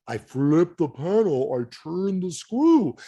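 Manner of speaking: slow, spelled-out explanation. Retold or imitated. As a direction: say it very slowly, as to a child. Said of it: "I'll slow it down".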